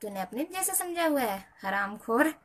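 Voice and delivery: scolding, ending on a loud insult; angry insult. Real, not acted. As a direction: snap back at a rude commenter. Insulting a rude commenter.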